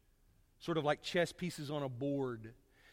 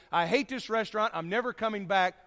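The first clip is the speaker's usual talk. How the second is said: mock angry customer; 4 semitones higher, 4 dB louder than usual. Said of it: "dress down the servers and tell everybody".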